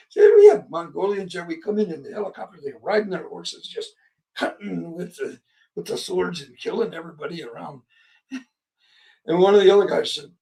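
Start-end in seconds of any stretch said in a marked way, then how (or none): 0.4-7.8 put-on German accent. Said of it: "German accent".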